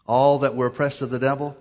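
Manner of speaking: loud, emphatic scripture reading; forceful burst of discovery; words standing out. Retold or imitated. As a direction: make the words leap off the page. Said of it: "stood up on the page".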